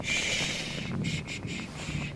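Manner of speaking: soft soothing shushes; shushing. Acted. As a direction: hush them like a frightened child. Hushing the struggling captive.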